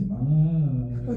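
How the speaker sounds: low, drawn-out dog voice; imagined menacing dog, stretching the name out low; Kodiak. Retold or imitated. Head dog greets the trapped boy, low and drawn out. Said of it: "He came out and said".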